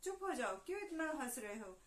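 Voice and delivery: the queen yelling at her husband in Hindi; queen shouting. Acted. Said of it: "वो जोर से चिल्लाई".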